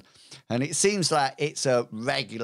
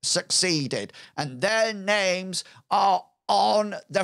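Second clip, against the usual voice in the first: youths' spokesman; 5 semitones higher than usual. Acted.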